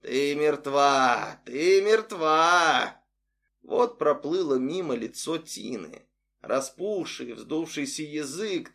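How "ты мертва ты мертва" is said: slow, drawn-out bubbling croak from below; a hint of a hoarse drowned voice, slowly; gloopy bubbling slime voice. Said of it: "хриплый, булькающий голос". (хриплый булькающий голос, медленно)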